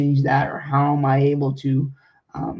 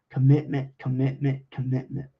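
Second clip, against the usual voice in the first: each Commitment said fully and deliberately, fading softer through the three; stressing commitment; 3 dB quieter than usual. Shown as a demonstration. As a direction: drill the word Commitment three times, trailing off. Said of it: "I'm gonna stress that word a thousand more times".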